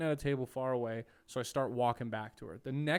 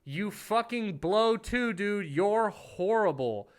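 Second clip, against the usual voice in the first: angry heckle; 7 semitones higher, 4 dB louder, much slower than usual. Retold or imitated. Heckling the comic back.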